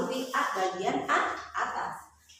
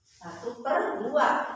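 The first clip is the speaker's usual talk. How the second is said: "satu per dua" drawn out slowly, word by word; slow spelled-out fraction; 3 semitones higher, much slower than usual. Shown as a demonstration. Teacher repeats the fraction for pupils, slowly. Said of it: "tuh lambangnya".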